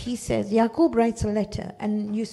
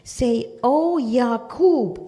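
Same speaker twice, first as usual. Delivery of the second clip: louder, a long call across the valley; calling out in the valley for an old man; 2 semitones higher, 6 dB louder, much slower than usual. Retold or imitated. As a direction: call his name loudly into the distance. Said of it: "Call out in your loudest voice".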